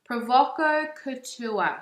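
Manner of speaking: playful broad Bogan pronunciation; Bogan accent. Shown as a demonstration. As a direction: drag out "Provoco Couture" in a Bogan accent. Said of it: "in my Bogan accent".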